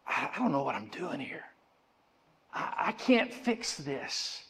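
soft, hesitant, halting confession; hushed inner cry. Acted. Preacher voices our broken inner self, hushed and halting. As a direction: voice the broken part inside, very softly. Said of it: "that part inside of us that still cries out and goes".

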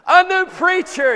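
high, loud repeat of an answer; excited call-out. Real, not acted. Preacher echoing a congregant's answer, excited and loud. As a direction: call it back to the room with glee.

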